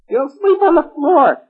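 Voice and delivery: high, slow witch voice. A narrator's reading. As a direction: sneer it like a wicked witch. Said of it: "who was a witch".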